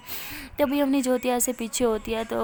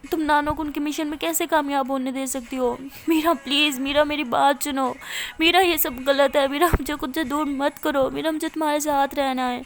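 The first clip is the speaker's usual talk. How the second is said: desperate plea; 3 semitones higher, 3 dB louder than usual. Acted. Sister pleading, voice rising.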